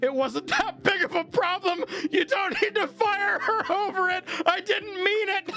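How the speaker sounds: high, laughing mock backpedal; squeaky voice for a guy who caved; laughing through a high, sheepish retreat; backtracking customer. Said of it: "The angry guy started to backtrack, like".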